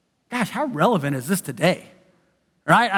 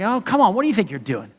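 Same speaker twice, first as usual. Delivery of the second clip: mocking doubter; 3 semitones higher than usual. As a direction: needle them about their past. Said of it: "they question your character".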